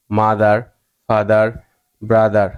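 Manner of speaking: word drill, voiced d inside "মাদার, ফাদার, ব্রাদার". Shown as a demonstration. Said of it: "উচ্চারণ করতে হয়েছে দয়ের মতো".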